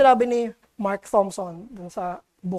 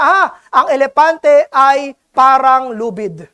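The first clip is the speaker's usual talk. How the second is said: blind man's guess; 7 dB louder, slower than usual. Retold or imitated. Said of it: "sabi niya".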